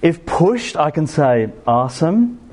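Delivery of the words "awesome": a brief, half-hearted American accent on "Awesome". Shown as a demonstration. Preacher showing his US friends his limited American accent. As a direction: toss off "Awesome" in a mock American accent, a touch higher. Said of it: "I'm not very good at doing the American accent".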